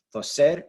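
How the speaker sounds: Toser lifted on the final -ser; stress on last syllable. Shown as a demonstration. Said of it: "stress the last syllable".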